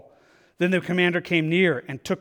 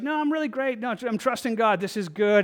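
breezy carefree refusal; 4 semitones higher than usual. Acted. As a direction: brush off the warning, all smiles. Man refusing helicopter ladder.

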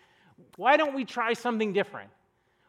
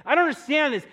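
louder, higher indignant outburst; he keeps shouting his complaint; angry customer; 5 semitones higher, 6 dB louder than usual. Retold or imitated. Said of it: "He's like".

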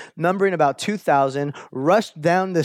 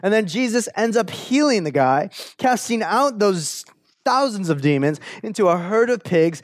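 ordinary delivery

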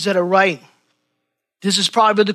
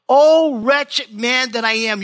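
higher, louder, slow moaning lament; moaning cry; 4 semitones higher, 4 dB louder, slower than usual. Shown as a demonstration. Preacher voices Paul's anguished cry to the church, moaning. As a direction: let it out as a groan of despair. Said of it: "hear the moan in the Apostle Paul's voice".

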